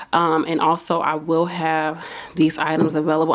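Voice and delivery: winded, breathy from talking; out of breath. Real, not acted. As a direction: speak while catching your breath. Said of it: "I'm kinda out of breath right now".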